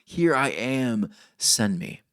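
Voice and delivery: slow, weighty delivery; heavy phrase. Shown as a demonstration. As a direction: let each word land slowly. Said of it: "heavy, beautiful phrase".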